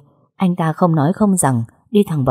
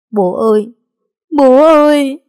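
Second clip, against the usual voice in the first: wailing call, second far higher and louder; choked crying out; 9 semitones higher, 6 dB louder than usual. A narrator's reading. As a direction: cry out to dead father in grief. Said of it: "nghẹn ngào gọi hai tiếng".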